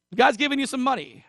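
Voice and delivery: sarcastic lift on guy's. Shown as a demonstration. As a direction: pitch jumps way up on the repeat. Repeats line for emphasis.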